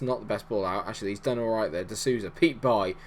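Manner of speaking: normal talking voice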